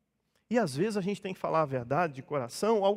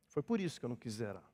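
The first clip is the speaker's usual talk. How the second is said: ordinary talk, nothing marked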